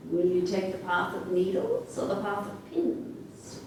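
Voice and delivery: lightly voiced wolf, a bit soft. Wolf offers the girl two paths, lightly voiced wolf. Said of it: "And the wolf said".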